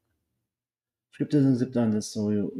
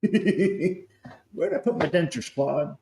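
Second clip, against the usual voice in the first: put-on slow, high toothless old man; 6 semitones higher, much slower than usual. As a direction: play a doddering old man hunting his dentures. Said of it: "That's gonna be me in twenty years".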